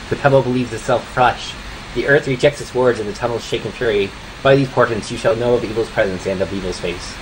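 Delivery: solemn, measured oracle reading; prophetic recitation. Acted. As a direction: intone it like an ancient prophecy.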